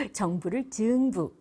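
usual speaking voice

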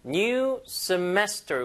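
"semester" stressed on its middle syllable, drawn out slowly. Shown as a demonstration. Teacher shows students the word accent, middle of "semester" stressed. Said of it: "이거 중간에 강세입니다".

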